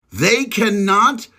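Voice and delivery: slow, each word separate. Shown as a demonstration. Repeating it for the doubters, slow and deliberate. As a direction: drive it home slowly. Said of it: "I'm gonna say it real fucking slow".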